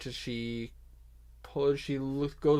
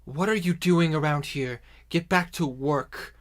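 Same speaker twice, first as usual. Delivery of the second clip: loud, higher-pitched scolding shout; barking orc boss; 4 semitones higher, 9 dB louder than usual. Acted. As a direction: order the slackers back to work. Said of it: "the orc that's hiding behind the other building goes".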